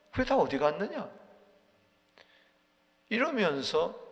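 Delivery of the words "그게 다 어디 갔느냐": a light sneer in the question; slightly mocking. Eliphaz taunting suffering Job, mildly mocking. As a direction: needle him a little with scorn. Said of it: "약간 비웃음조로".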